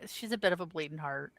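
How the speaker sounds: fast whispered aside. Real, not acted. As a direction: whisper it to the table. Aside about own character.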